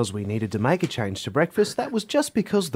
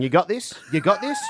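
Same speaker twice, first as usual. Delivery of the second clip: light mock hype-man repetition; mimicking a colleague; 4 semitones higher than usual. Mocking coworker's pep-talk catchphrase. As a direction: tease him by copying his catchphrase. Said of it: "He walks around the building going".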